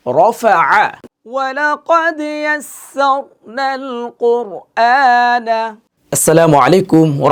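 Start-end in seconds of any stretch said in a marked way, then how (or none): 1.3-5.6 slow chanted verse; Quran recitation. Acted. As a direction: stretch it like recitation.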